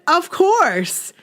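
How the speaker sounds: imitating Joe's Boston accent; light Boston accent, high. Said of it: "In his Boston accent".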